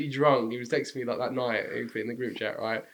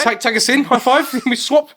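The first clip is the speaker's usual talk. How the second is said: mock eagerness; 8 semitones higher, 7 dB louder than usual. Acting out joining the rival dancers.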